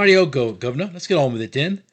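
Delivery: loud, high-pitched mock Cockney; hearty put-on Cockney, raring to go; Cockney accent. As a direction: ham it up as a chipper Cockney. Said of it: "the Cockney accent really throws it".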